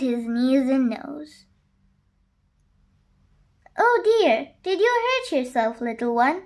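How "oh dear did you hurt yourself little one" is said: high, soothing worry; tender nanny's concern, starting high. Acted. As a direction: fuss gently over a hurt child. Nanny comforts a hurt child.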